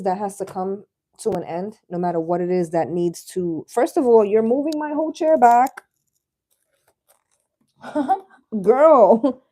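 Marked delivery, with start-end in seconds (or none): 3.7-9.4 exasperated. Real, not acted. Chair pushed back, protest.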